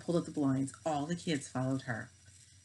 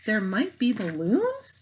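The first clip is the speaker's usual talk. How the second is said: mock reading; 5 semitones higher, 6 dB louder, much slower than usual. A narrator's reading. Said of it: "she read".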